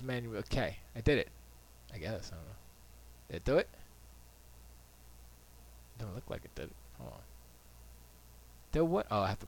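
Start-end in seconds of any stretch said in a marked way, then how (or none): none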